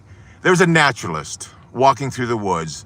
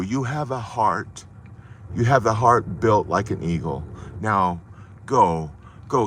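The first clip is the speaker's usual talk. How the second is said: tender blessing. Acted. Grandfather with hand on Mikey's chest, tender and slow. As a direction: lay it gently on his heart.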